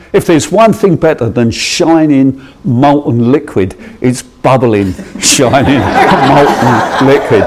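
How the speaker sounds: laughing delight. Real, not acted. Delighted memory of molten metal.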